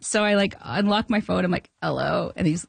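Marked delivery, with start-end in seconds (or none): 1.8-2.3 groggy. Retold or imitated. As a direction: act just woken by the phone. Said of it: "that sort of groggy, half awake sleep".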